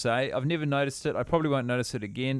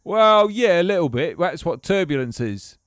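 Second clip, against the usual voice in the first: put-on English accent; 4 semitones higher, 5 dB louder than usual. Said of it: "talking like this".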